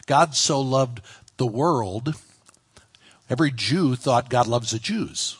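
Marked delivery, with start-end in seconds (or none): 0.1-2.1 slow, with "world" held out after a slight break; deliberate, weighted "world"; stress on WORLD. Shown as a demonstration. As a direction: land on "world" as the key word. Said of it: "Now you gotta stop here. The world".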